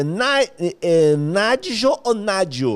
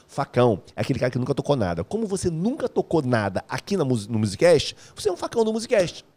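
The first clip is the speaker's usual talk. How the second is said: usual speaking voice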